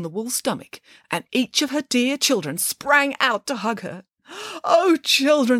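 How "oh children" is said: high, louder, fond cry; joyful relief. A narrator's reading. Mother pig greets rescued children, joyful relief. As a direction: greet them with delighted relief.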